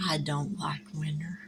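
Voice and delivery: soft laughing whisper; whispered giggle. Real, not acted. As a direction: giggle it under your breath. Giggly confession about winter.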